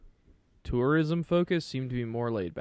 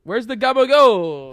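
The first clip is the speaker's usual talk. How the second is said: loud, drawn-out mobster holler; Tony Soprano; 7 semitones higher, 13 dB louder, slower than usual. Acted. Friend demanding deli meat, mock mobster holler. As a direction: holler high for your cold cuts, hammed up. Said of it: "Just started like Tony Soprano".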